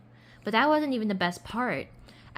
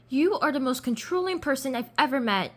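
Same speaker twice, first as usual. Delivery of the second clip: higher, heated yell in a read-aloud; angry yell; 6 semitones higher, 4 dB louder than usual. A narrator's reading. Narrator quarrels with Sasha, yelling angrily. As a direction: throw it at a friend, raised and accusing. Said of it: "I yelled at Sasha".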